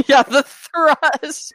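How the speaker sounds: high echo of a comic catchphrase; hammed-up high character cry; Nichols. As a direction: throw it out high and punchy. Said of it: "that was my Nichols impression".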